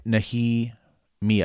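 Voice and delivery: "Nehemia" slowly, as neh-hee-MEE-ah; demonstrated pronunciation. Shown as a demonstration. Host confirms a listener's correction, slow syllabled "Nehemia". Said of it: "Amanda's right".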